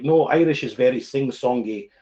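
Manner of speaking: firm put-on Scottish accent. Shown as a demonstration. Streamer setting people straight about accents, Scottish accent. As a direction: correct them in a Scottish accent. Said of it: "my Scottish accent is probably my favourite".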